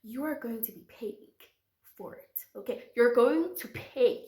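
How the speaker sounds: demanding warning; stern scolding. Retold or imitated. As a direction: lay down the law. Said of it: "So I said".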